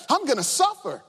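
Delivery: said with bright, sure confidence; joyful confidence. Retold or imitated. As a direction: announce it boldly, almost glad. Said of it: "It was with joy and confidence that he would say".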